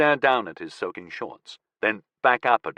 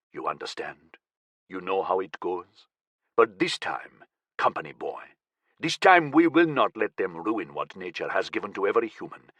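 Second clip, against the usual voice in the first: menacing militant leader; 4 semitones lower, 3 dB quieter than usual. Acted. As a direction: lean in and threaten him quietly. Akar menacing speech.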